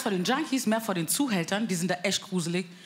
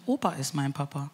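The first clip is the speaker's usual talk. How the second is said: put-on child quote; 6 semitones lower, 3 dB quieter than usual. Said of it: "sagt die".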